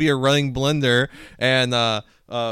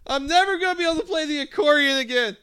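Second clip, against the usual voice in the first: much higher, louder mock howl over a mangled hand; hammed-up pain scream; 7 dB louder than usual. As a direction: yelp it in fake agony, half laughing. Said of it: "I would be like".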